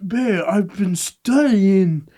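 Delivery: put-on slow slurred drunk excuse; blackout drunk. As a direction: slur it like a drunk boyfriend. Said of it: "You're slurring your words".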